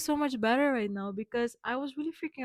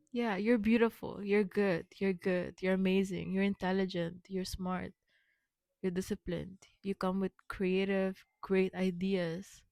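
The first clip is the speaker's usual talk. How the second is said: affirmations; 3 semitones lower than usual. Acted.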